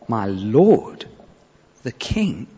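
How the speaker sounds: hushed homage to the king; a quiet, humble address to his master; reverent. Acted. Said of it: "Respect, honor".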